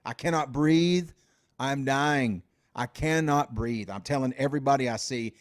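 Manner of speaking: starts in a loud pained yell, then fades back toward normal; retold desperate pleading. Groggy patient to hospital staff, a loud pained plea that fades. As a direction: relive the panic of thinking you're dying. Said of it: "I'd be like".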